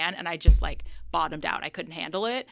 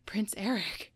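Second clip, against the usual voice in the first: hushed whisper of a name; retold whisper; 6 dB quieter, slower than usual. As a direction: whisper it like a secret. Retold sneaky aside to actor.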